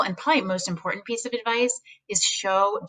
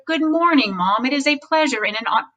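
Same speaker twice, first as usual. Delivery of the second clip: "Good morning, Mom" as a stiff podium speech; mock-formal greeting to your mother; lightly acted stiff formal greeting at home; 5 semitones higher than usual. Shown as a demonstration. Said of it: "Are you like".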